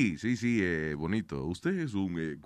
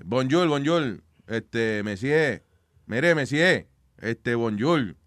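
bad French accent; 3 semitones lower, slower than usual. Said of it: "Eso es un mal acento francés".

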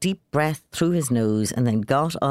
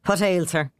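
snapped; 4 semitones higher than usual. Acted. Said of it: "he snapped".

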